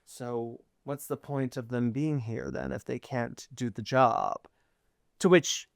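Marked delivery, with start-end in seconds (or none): 0.0-4.5 bratty. Acted. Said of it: "He's giving evil twink".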